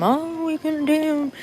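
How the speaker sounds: high, slow mocking sing-song of a smooth talker; mimicking a con artist's sales pitch; mock scammer pitch.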